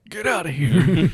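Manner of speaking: put-on slow, high old man voice; old Indiana Jones. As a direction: grumble it like an elderly hero. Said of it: "an old Indiana Jones like".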